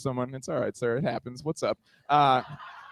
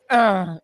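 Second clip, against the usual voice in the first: short, louder mock moan; tennis-grunt moan; 5 dB louder than usual. Man returning her moan, mock tennis grunt. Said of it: "like a women's tennis match".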